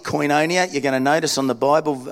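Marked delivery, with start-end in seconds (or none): 0.0-0.7 a touch of Aussie in "Koinonia"; Aussie accent. Shown as a demonstration. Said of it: "We said it a bit Aussie".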